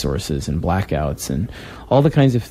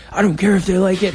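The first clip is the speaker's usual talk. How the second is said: imitating Greg; 11 semitones higher, faster than usual. Friend waving off his worries in a high mock tough-guy voice. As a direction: play the big wrestler friend brushing it off. Retelling his partner's pep talk.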